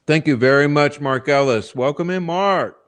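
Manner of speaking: loud, cheery welcome; loud greeting. Real, not acted. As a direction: call the name out loud. Loudly greeting a viewer.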